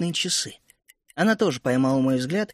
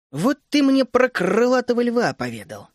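thoughtful; 6 semitones higher, 3 dB louder than usual. A narrator's reading. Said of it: "начала задумчиво Тереза".

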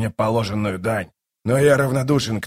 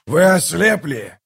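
raised, high-pitched angry yell; 6 semitones higher, 3 dB louder than usual. A narrator's reading. King yells at the gods from his throne, furious. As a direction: burst out in outraged disbelief. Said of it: "завопил Каллор".

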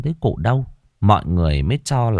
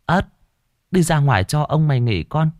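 grandmother urging; 8 semitones higher than usual. A narrator's reading. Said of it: "Bà nội tôi nhiều lần bảo".

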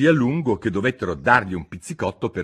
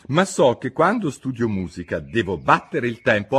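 Alice; 4 semitones higher, 4 dB louder than usual. Acted. Alice voiced.

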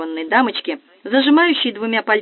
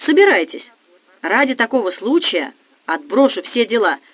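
squealing; 2 semitones higher than usual. Acted. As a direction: squeal it out with delight. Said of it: "завизжала Настя".

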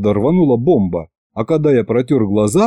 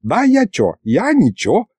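high-pitched mock innocence; a touch of impish old man; giggly protest; 7 semitones higher than usual. A narrator's reading. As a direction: protest lightly, amused. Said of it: "хихикнул дед".

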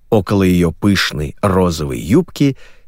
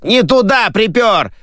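backstage scolding; 12 semitones higher than usual. Acted. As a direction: bark at the worker from the wings.

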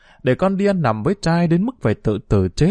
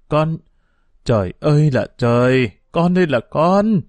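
wailing outburst; 3 semitones higher, 3 dB louder than usual. Acted. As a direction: throw up your hands and wail at her. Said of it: "Bà Thanh giãy nảy lên".

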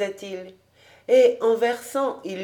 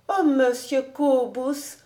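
put-on high, slow, gentle girl voice; sweet little voice; 5 semitones higher than usual. A narrator's reading. Girl gently protesting to her host, small high voice. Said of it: "de sa petite voix douce".

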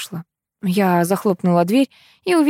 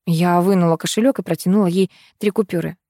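ordinary delivery, nothing marked

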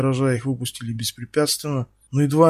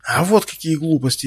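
furious outcry; 3 semitones higher than usual. Acted. Ксюша яростно кричит в ответ Стасу. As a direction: fling it back at him in rage. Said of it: "яростно выкрикнула та".

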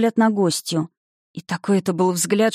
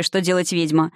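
plain reading voice

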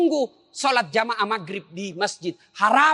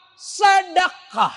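Sedekah drawn out slowly, high and loud; emphatic answer; 10 semitones higher, 4 dB louder, much slower than usual. Real, not acted. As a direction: stretch and shout Sedekah. Answers own question emphatically. (Sedekah diucapkan lambat dan keras)

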